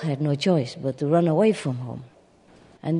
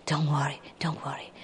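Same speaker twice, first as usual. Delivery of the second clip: soft reassurance; 9 dB quieter than usual. Acted. Sheep comforts goose.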